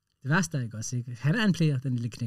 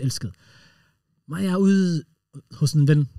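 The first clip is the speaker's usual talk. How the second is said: ordinary delivery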